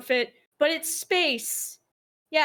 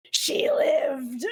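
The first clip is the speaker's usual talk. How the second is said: awed whisper; whispered disbelief. Real, not acted. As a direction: breathe it in disbelief. Disbelief at the survival.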